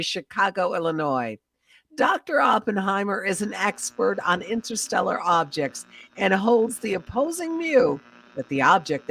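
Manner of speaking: formal, measured bulletin read; radio news announcer. Acted. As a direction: announce it like a 1930s newscaster.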